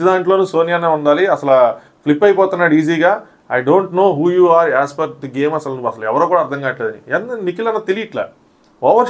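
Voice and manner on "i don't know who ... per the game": very slow, deliberate English line; quoting Vishnupriya. Retold or imitated. Vishnupriya calling out Nikhil's game, very slow and deliberate. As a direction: stretch the words out as a pointed jab. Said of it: "ఆ right word use చేసింది విష్ణుప్రియ".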